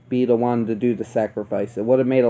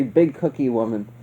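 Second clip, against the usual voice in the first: big cookie woman said low, soft and straight; flat, serious big cookie woman; a hint of dead-serious Loomis; deadpan Loomis; 3 semitones lower, 4 dB quieter than usual. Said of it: "Just hearing Loomis say".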